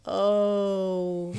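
long, drawn-out scandalized "oh"; shocked old-lady audience. Retold or imitated. Old ladies in the front react to the scene, imitated shocked oh. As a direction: imitate a front-row gasp of disapproval. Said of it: "old ladies in the front, and they went".

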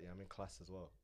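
lightly mimicked Brummie, short A in "class"; Birmingham accent. Retelling her reply in class, imitated Birmingham accent. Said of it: "Birmingham accent".

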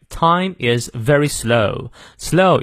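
slow, careful SLOW with the O glide fully sounded; teacher's drawn-out model of "slow"; full diphthong. Shown as a demonstration. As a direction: stretch the O in "slow" through its whole glide. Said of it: "slow也是双元音O 念到位".

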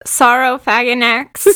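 Saurophaganax sounded out slowly, unsure; sounding it out. Shown as a demonstration. Teacher attempting a hard fossil name, sounding out Saurophaganax. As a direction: work slowly through the syllables of Saurophaganax. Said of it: "I am sounding it out".

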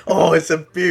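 put-on a touch of high Australian accent; lightly hammed-up Aussie; mock Australian accent.

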